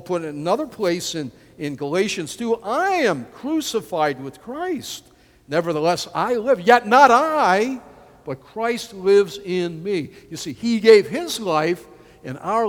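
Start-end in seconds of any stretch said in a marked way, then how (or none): 2.6-10.1 slow, loud proclaiming recital; scripture recital. Acted. Preacher reciting Galatians to the congregation, slow and proclaiming. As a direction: declaim the verse like a creed.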